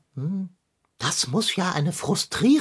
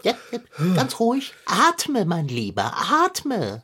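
soothing. Acted. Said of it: "calming him".

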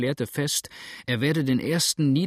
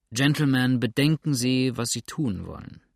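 raised appeal; 4 dB louder than usual. Acted. Lawyer addresses riled crowd.

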